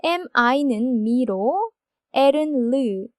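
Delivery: ordinary talk, nothing marked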